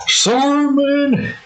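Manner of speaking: high, chirpy apology; Hank's high quick apology to Min; Hank's catchphrase. Acted. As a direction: toss off a quick high sorry. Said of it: "the catchphrase of the show".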